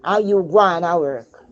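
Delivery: mild mock insistence to the father; retold demand. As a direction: hand it over, with a touch of urgency. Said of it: "I said".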